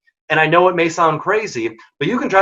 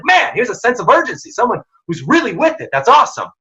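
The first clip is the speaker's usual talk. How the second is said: high-pitched enthusiastic approval; excited imagined inner reaction; impressed boss's thought; 7 semitones higher than usual. Acted. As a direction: sound impressed, with swooping emphasis. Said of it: "they're gonna think to themselves".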